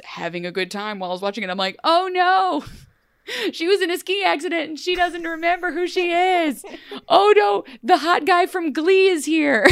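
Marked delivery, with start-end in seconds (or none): 1.8-9.7 high, loud, hammed-up gasping commentary; mock dramatic exclamations. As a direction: react to the movie like a gushing fan. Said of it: "a lot of exclamations like that".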